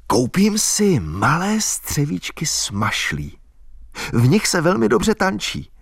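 put-on a wild country girl giddy about dancing; girl's voice full of plans; Albína's girlish voice. A narrator's reading. Albína dreams aloud, voiced.

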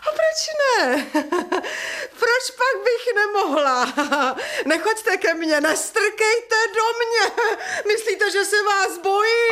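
high, defiant laughing through tears; hysterical laugh. Acted. Widow defying the landowner, hysterically laughing. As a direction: laugh hysterically in his face.

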